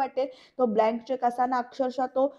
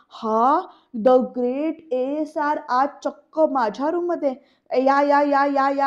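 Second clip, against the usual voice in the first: loud, drawn-out sarcastic welcome; mock welcome; 5 dB louder, slower than usual. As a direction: greet him with exaggerated fake delight. Rakesh मेव्हण्याचे उपहासाने स्वागत करतो. (मोठ्याने उपहासाने केलेलं स्वागत)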